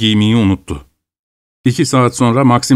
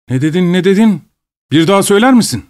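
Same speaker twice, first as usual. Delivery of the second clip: outraged challenge; 8 semitones higher, faster than usual. Acted. Overseer demanding the peasant repeat himself, high and outraged. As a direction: dare him to repeat it.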